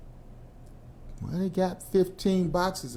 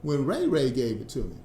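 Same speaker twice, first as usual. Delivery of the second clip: mock excuse; 6 semitones higher than usual. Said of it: "And you go".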